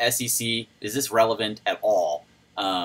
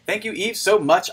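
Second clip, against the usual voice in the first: excited thanks; 8 semitones higher, 3 dB louder than usual. Real, not acted.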